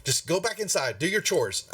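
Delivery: put-on gently but firmly shoo a child along; mother correcting her son. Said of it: "she's like going".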